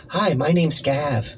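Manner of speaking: slow mock greeting. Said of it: "quietly behind her say".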